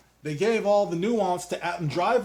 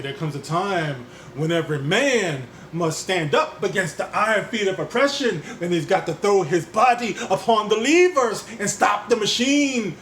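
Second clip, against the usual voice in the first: oratory; 4 semitones higher, 3 dB louder than usual. Pretend. Quoting a civil-rights speech.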